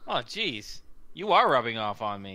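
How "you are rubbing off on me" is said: snickering, in a character voice. Voicing Xavier answering Isaac's stare: in character, snickering. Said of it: "he says with a snicker".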